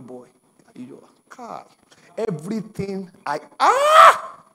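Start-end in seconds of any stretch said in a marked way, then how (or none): 3.6-4.4 high shouted ah of anguish; pained cry. Retold or imitated. Pastor recalling his tears, high anguished cry. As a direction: let out a sudden anguished wail.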